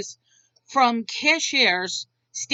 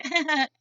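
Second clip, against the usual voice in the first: imitated laugh; 3 semitones higher than usual. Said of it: "And she's like".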